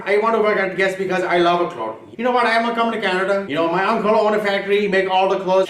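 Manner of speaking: put-on Indian accent; caricatured Indian man's accent; Indian guy accent. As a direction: play an Indian-accented job applicant. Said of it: "Indian guy right here".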